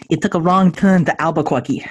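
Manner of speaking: a light hint of a cartoon rabbit; lightly voiced Bugs Bunny line, joking. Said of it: "in my best Bugs Bunny voice".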